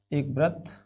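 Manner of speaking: slow, quiet word-by-word dictation; dictating while writing. Real, not acted. Teacher writing out the given data for students, slow dictation. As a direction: say it softly, piece by piece, with long pauses.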